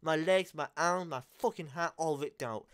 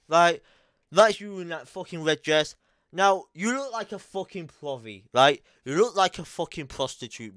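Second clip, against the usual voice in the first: loud, furious telling-off; yelling at her over the red dress; angry shouting; 7 dB louder than usual. Real, not acted. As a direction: shout her down with real fury. Angry rant at the girl.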